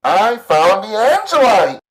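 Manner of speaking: loud, high nerdy radio voice. A narrator's reading. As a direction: shout it like a nerdy cop on the radio. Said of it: "in a nerdy voice".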